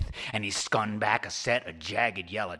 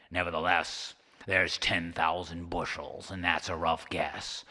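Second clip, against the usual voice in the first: lower, grumbling serpent; a hint of a gruff sea serpent; lightly voiced serpent; 3 semitones lower than usual. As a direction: flatly insist like a bored monster. Serpent voice continues.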